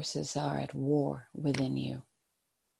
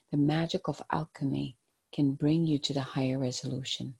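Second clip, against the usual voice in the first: gentle, hushed guided-meditation voice. Acted. Tarot card reading, meditative guidance.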